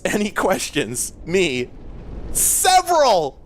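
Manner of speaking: slow, hammed-up sketch character drawl; David S. Pumpkins voice. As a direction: bellow it like a goofy costume guy. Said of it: "David S. Pumpkin Voice".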